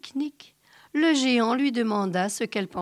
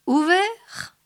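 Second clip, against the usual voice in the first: big high booming question; a giant asking if it's open; 10 semitones higher, 4 dB louder than usual. A narrator's reading. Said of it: "demanda-t-il". (géant qui demande fort)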